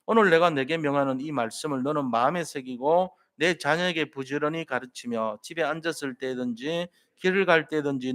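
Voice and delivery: steady, measured Bible reading with the congregation; scripture reading aloud. Acted. Pastor leading the congregation in reading Acts, measured recitation. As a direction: read the verses together in a firm, even voice.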